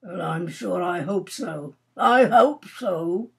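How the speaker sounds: lightly moody Major, slow emphatic repeat; subdued first, then press the repeat heavily. Acted. Major doubting tomorrow's hunt, moody. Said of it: "said the Major moodily".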